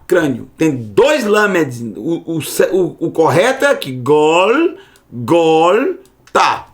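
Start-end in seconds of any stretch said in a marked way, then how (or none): 3.9-5.9 Gol, gol said low and short, the right way; correct pronunciation. Shown as a demonstration. Teacher shows the class the correct way to say the place. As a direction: model Gol, gol as the correct form. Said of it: "Essa é a forma correta de se falar o lugar".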